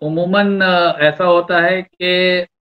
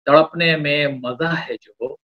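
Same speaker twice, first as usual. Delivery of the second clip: romantic shayari. Acted. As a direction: draw out each line of the couplet. Poet recites a love couplet.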